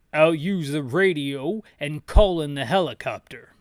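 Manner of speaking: loud dialogue read. Acted. Reading game dialogue aloud.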